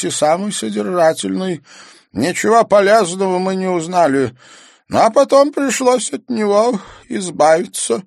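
high, loud, strained character voice; older man's voice. Acted. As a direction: tell it like an old club elder.

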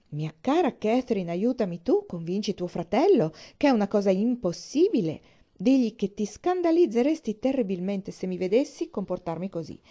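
animated Isabella-type figure, lightly indignant; lightly voiced theatrical young lady, protesting; dramatic, protesting young friend. Isabella appeals to Catherine against her brother, lightly indignant.

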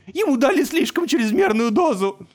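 high, loud desperate cry; delirious journalist screams from his pillow; screaming at full force. A narrator's reading. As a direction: yell it with all his strength. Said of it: "он вскричал, что есть мочи".

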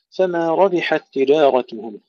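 ربحت with a full heavy ra. Shown as a demonstration. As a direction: recite ربحت with the ra made thick. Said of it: "تفخيم الراء جيدا". (ربحت بتفخيم الراء)

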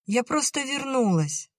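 put-on high little girl's voice calling; little sister calls her sister to open up; young girl calling. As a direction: call through the door, high and young. Nadya's child voice.

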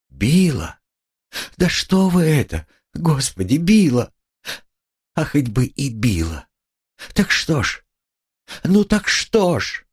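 high, rising distress; agitated protest. A narrator's reading. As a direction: defend her with mounting agitation.

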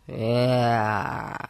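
mumbling through a mouthful; chewing sticky toffee. Acted. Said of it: "усиленно жуя тянучку".

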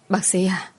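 breathless whisper of a desperate daughter; whispered plea. Acted. Daughter begs the doctor to save her mother, whispering. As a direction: whisper it, barely holding together.

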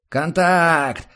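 high, loud shout of warning; roaring alarm. A narrator's reading. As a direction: roar it out as contact is made. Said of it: "взревел Серёга".

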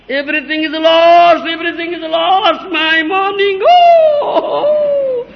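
hammed-up wail climbing to a high, loud cry; mock despair, building into a high howl. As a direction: imitate a ruined businessman wailing, pitch rising to the end. Acts businessman who lost money.

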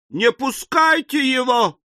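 very high, slow shriek. A narrator's reading. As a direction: squeal it out like panicking women. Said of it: "завизжали все женщины". (протяжный женский визг)

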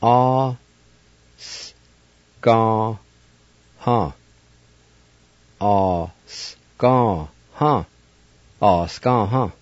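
"Ah, ska, huh" with a breathy final "huh"; Cherokee pronunciation. Shown as a demonstration. Teacher demonstrating "Ah, ska, huh" to students, careful syllables. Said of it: "It's pronounced like this".

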